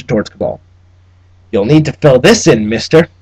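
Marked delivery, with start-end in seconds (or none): 1.5-3.1 smug clerk. Acted. Trubshaw handing over a form.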